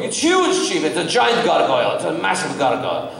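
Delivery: high, eager boast of a huge monster; excited director. Retold or imitated. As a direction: sell the monster as enormous. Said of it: "He goes".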